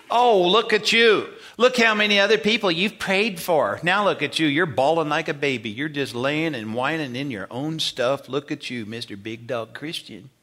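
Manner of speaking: the enemy jeering at a believer who is down; mocking taunt. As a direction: rub his failure in his face. The enemy mocks the fallen believer.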